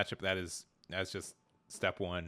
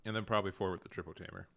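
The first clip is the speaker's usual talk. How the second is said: crunching chips. Real, not acted. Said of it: "Those noms sound good over there".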